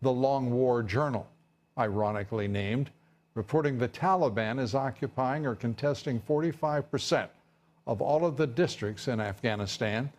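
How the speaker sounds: measured anchor delivery; news read. Acted. Anchor reporting war figures to viewers, news read.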